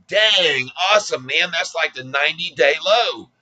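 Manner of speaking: high, bright-eyed cheer of a gullible caller; playfully imitating a thrilled investor; mock excited caller. Imagined caller cheering the low.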